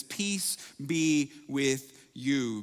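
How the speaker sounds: drawn-out calm blessing; slow gentle greeting. Retold or imitated. Jesus greeting the disciples, slow and calm. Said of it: "the same four-word message".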